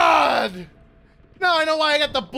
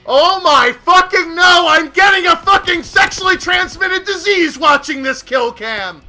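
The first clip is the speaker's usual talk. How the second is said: disgusted rant. Real, not acted. Disgusted by the kill cam.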